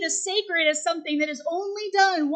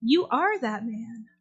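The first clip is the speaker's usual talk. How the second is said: grave prophet; 3 semitones lower, slower than usual. Acted. Prophet Nathan confronting King David, slow and grave. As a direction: drop the voice and deliver the verdict gently. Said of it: "And Nathan looks up and goes".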